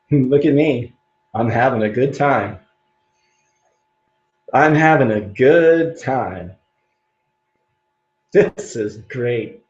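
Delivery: slow, beaming, forced cheer; smiling through it. Shown as a demonstration. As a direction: smile while you say it. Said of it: "I start with the inner smile".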